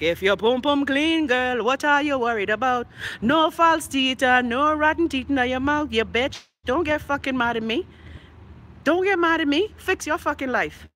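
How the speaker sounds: heated, punchy telling-off; scolding rant. Real, not acted. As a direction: lay into your detractors, voice lifted. Telling off her detractors.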